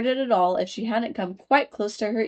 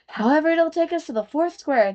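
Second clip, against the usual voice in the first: put-on higher girl's voice; Alice voice; 8 semitones higher, 4 dB louder than usual. A narrator's reading. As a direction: comfort herself like a young girl. Alice to herself.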